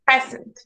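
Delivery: "present" stressed on PRE, PREZ-ent; PRE-sent, second syllable weak; stress on first syllable. Shown as a demonstration. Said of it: "practice word stress".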